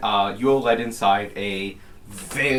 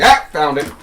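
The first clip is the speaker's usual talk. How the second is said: pleased exclamation; 5 semitones higher, 10 dB louder than usual. Acted. Old gnome finds the binder.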